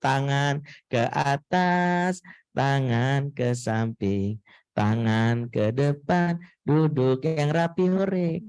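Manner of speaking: put-on slow, sing-song instructions to little kids; slow cheerful class leader; kindergarten teacher voice. Shown as a demonstration. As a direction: lead toddlers clapping along, slowly. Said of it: "pakai gerakan tepuk-tepuk".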